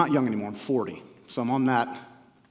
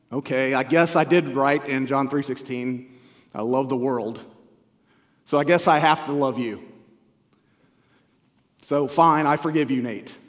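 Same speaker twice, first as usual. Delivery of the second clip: grudging, annoyed God; 2 semitones lower than usual. Retold or imitated. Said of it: "I almost hear God saying something like".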